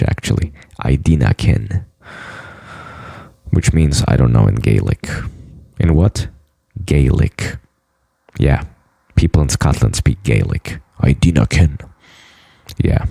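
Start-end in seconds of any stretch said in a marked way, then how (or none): 0.8-1.8 lower, lightly Scottish "I dinna ken" with "dinna" rolled out; Scottish accent. Shown as a demonstration. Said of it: "I'll tell you something in Scottish". 11.0-11.8 lower, lightly Scottish "I dinna ken" with "dinna" rolled out; Scottish accent. Shown as a demonstration. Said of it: "I'll tell you something in Scottish".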